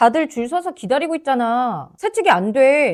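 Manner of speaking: very loud, firm, forceful and powerful delivery. Demonstrating how to practice speaking with a strong, forceful voice. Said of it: "목소리에 힘이 있어야 돼요".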